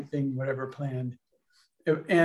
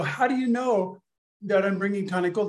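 surprised; 5 semitones higher than usual. Retold or imitated. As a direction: jump higher with disbelief. Retold own astonished question.

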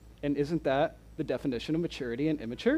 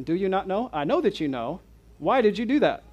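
parent scolding; 2 semitones higher than usual. Retold or imitated. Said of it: "I use different words with my children".

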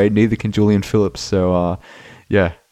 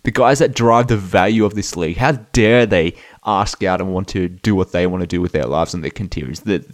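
sarcastic outrage. Acted. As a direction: drag it out in fake disgust. Sarcastic mock outrage at players.

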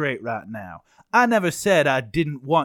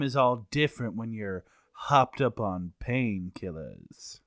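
whispered excuse; 5 semitones lower, 7 dB quieter than usual. Acted. Suspect claims painkillers.

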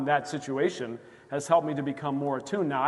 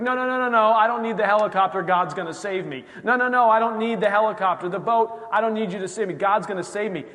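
stubborn refusal; 5 semitones higher, 6 dB louder than usual. Retold or imitated. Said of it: "You're like".

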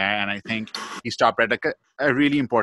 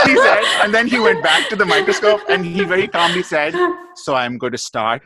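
laughing while talking; 7 semitones higher, 7 dB louder than usual. Real, not acted. Laughing at own embarrassing story.

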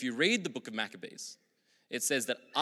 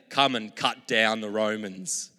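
louder, slow, insistent demand; crowd demanding; 6 dB louder than usual. Retold or imitated. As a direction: voice the crowd calling for war. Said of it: "They're saying".

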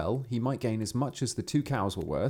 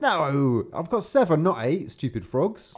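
irritated peasant; 5 semitones higher, 4 dB louder, slower than usual. Acted. Peasant argues with frogs.

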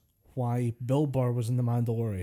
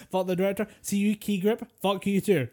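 laughing while cursing the crew; giggling, cursing everyone out; laughing mock curses; 6 semitones higher than usual. Mock cursing at film credits.

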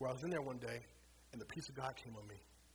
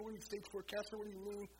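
anguished crying; 7 semitones higher than usual. Retold or imitated. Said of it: "I cry and I weep".

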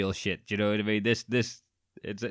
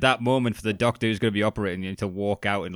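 usual speaking voice

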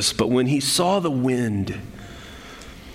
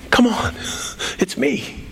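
coaxing; 9 semitones higher, slower than usual. Acted. Acting Jesus coaxing doubting Peter.

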